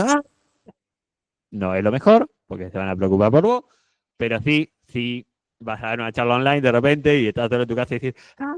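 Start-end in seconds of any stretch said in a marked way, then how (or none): 0.0-0.2 demo shout. Shown as a demonstration. 8.4-8.5 demo shout. Shown as a demonstration. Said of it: "Y gritar".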